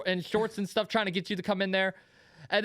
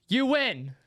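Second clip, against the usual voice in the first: raised, projected declaration; calling out verdict; 5 semitones higher than usual. Retold or imitated. Diner picking the cheaper restaurant, calling out the verdict. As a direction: re-enact announcing a winner across the street. Announces choice across the street.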